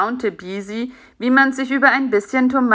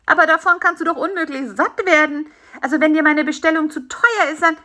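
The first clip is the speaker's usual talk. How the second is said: higher, earnest protest; lightly voiced concerned fly; 9 semitones higher, 3 dB louder, faster than usual. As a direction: protest lightly in a raised character voice.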